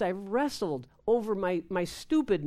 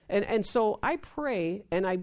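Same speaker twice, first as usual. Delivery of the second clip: ordinary talk, nothing marked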